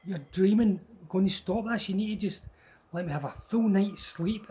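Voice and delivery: a fed-up father who wants sleep; tired dad. Retold or imitated. Tired father telling scared child to sleep, exasperated. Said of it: "He's like".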